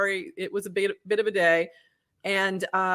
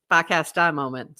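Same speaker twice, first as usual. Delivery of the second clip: dropped R's in a Boston accent; 3 semitones lower than usual. Shown as a demonstration. Co-host echoes her own phrase for laughs, in a Boston accent. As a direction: say Farcaster the Boston way, "Fahcastah". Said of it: "Your Boston accent".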